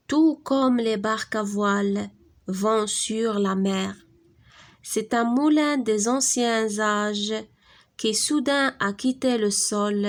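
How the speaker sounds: very slow, measured poem reading; slow schoolroom diction with pauses between verses; expressive poem recitation. Acted. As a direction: recite it line by line, lingering on the words. Reads the poem aloud.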